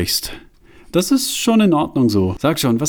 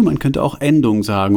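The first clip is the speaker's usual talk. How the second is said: triumphant echo. Acted. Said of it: "Siehst du".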